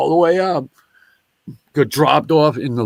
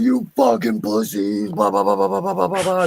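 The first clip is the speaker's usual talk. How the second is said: retold scream; 8 semitones higher than usual. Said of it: "I'm screaming".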